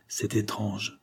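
a soft, worried murmur under the breath. A narrator's reading. Jacqueline murmuring to herself, uneasy. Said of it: "tandis que Jacqueline murmurait".

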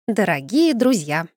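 slow, grand toast opening; proclaiming. Acted. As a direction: announce it to the whole crowd. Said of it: "провозгласила она".

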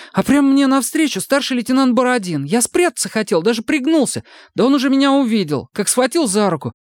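high, pleading outburst; frightened recruit protesting. A narrator's reading. Сомик отчаянно отрицает обвинения, высоко и испуганно. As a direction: deny it desperately. Сомик tells his story.

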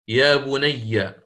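يا بني بكسر الياء مطولة ببطء; أظهر كسر الياء في يا بني متمهلا. Shown as a demonstration. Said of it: "هكذا". (يا بني بالكسر ببطء)

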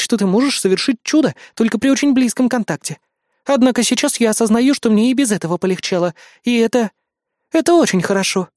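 a hint of a haughty young queen; queen Lara. Lara voiced by narrator. (слегка повыше, надменная королева)

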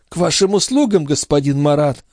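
put-on high, syrupy old crone; sugary old woman's voice. A narrator's reading. The concierge fawning over Marat in an old woman's voice. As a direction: lay on the sweetness like an old concierge.

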